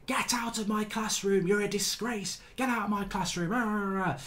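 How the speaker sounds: lightly hammed-up classroom dismissal; mock teacher rant. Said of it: "she's like".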